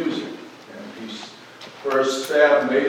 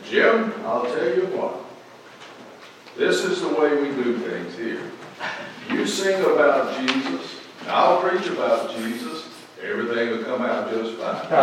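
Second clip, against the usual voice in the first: lightly imitated great preacher's voice, raised pitch; Adrian Rogers; 2 semitones higher than usual. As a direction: gently put on a booming preacher's delivery. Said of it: "that booming baritone voice".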